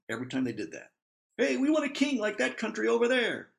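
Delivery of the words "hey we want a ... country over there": high, eager plea for a king; demanding Israelites. Acted. Israel begging God for a king, high and eager. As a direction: whine it like a crowd wanting a king.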